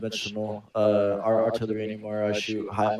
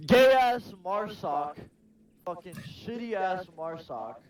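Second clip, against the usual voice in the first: mocking sneer; 7 semitones higher, slower than usual. Mocking unit name.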